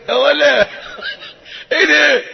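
high, laughing outburst; laughing disbelief. Real, not acted. Preacher cracking up at the curse, high laughing.

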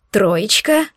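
растерянное «Троечка?» с подъёмом в конце; переспросить «Троечка?» в недоумении; опешив. Acted. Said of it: "опешил Шантар". (ошарашенный переспрос «Троечка?»)

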